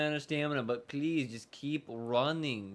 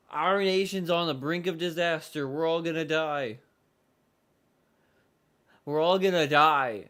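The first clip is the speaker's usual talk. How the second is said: mock doomsday announcement; 2 semitones higher, 6 dB louder than usual. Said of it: "Inazuma or Liyue is just like".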